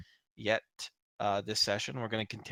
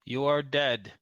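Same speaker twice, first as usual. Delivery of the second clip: matter-of-fact; 5 dB louder than usual. Acted. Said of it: "says the Borg, clearly, directly, matter-of-factly".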